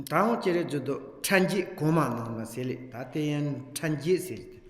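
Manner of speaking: steady, rhythmic reading of Tibetan prayer text; a teacher reciting the offering prayer aloud; liturgical recitation. Acted. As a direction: read the verses in an even recitation cadence.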